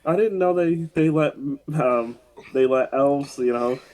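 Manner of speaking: lightly voiced naive elf; a hint of wide-eyed Buddy; retelling Buddy's surprise at the elf; imitating Buddy. Buddy's naive line retold.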